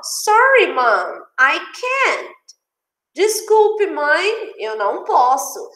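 high-pitched, apologetic child's reply, mildly acted; a hint of a daughter begging off; lightly voiced daughter. Daughter tells mom she can't come, lightly acted apology. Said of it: "E ela fala assim".

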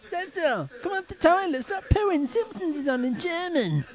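high-pitched, urgent call; excited calling out. Real, not acted. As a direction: call them excitedly to come and see. Calling Cecil from the toilet.

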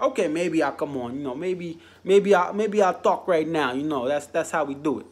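lightly put-on New York Jersey accent, mocking Mike; half-hearted New York accent, teasing the host; bad New York accent. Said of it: "That is a bad New York accent, Jersey accent".

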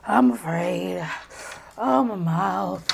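slow, tearful whimper; crying. Real, not acted. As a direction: slowly whimper through the burning. Suffering from spicy noodles.

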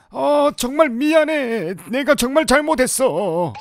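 drawn-out, lightly put-on wail; changed voice apology. Spouse apologizing to the dying partner, in a changed voice. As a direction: plead with a touch of melodrama. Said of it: "너 목소리가 바뀌었잖아".

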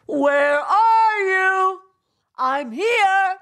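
high, loud, drawn-out hallooing; calling out. Acted. Narcissus calling to lost companions, high loud halloo. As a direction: call across the mountains. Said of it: "He hallooed them".

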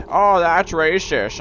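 slow, drawn-out scolding mock; mocking accusation. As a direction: parody a self-righteous accuser. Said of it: "when people are like".

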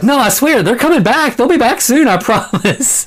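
high-pitched mock pleading; hammed-up frantic reassurance; desperate insisting. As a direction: plead it way up high, breaking into a laugh. Character pleading, retold with a laugh.

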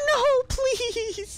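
high crying plea; being chased. Real, not acted. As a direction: wail it, begging in panic.

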